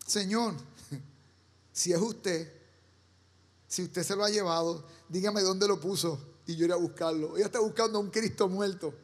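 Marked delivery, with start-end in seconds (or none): 0.1-7.4 pleading Mary. Retold or imitated. Mary begging the gardener for the body, soft and grieving. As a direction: plead quietly, a hint of tears.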